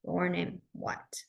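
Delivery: slow, deliberate demo; your name what, drawn out; slow ASL word order. Shown as a demonstration. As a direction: spell it out slowly for learners. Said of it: "you would go".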